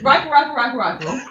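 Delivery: mimed searching muttered as repeated "rifle"; quick rummaging patter; imitated rummaging. Shown as a demonstration. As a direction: chant it while pretending to rummage, half-laughing. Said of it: "No, it was this, it was this".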